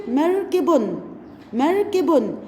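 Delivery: مركب drawn out slowly; slow syllable reading. Shown as a demonstration. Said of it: "أقرأها مركب".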